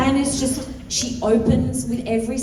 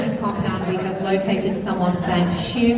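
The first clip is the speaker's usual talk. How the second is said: mock PA announcement. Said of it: "So is this a public service announcement?".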